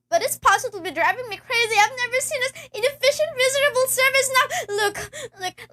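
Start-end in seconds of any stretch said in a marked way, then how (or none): 1.8-4.7 tearful complaint. Acted. Complains to operator.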